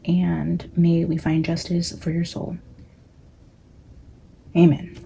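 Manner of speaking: hushed opening prayer before the reading; spoken prayer. Acted.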